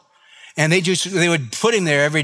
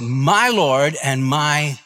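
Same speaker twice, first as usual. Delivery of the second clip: awed Thomas; 4 semitones lower, much slower than usual. Retold or imitated. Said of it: "And Thomas said".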